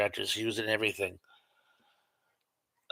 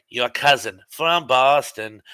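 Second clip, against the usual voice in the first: put-on slow, louder Boston accent; 6 dB louder, slower than usual. Showing a chat viewer how easy a northern accent is, Boston accent. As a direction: do a New England accent with dropped R's. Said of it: "You can do a New England accent".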